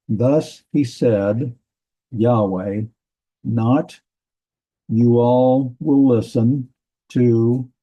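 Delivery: slow word-by-word reading, pausing between phrases; halting, deliberate gloss of a verse; literal translation read-out. Acted. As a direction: translate aloud slowly, piece by piece.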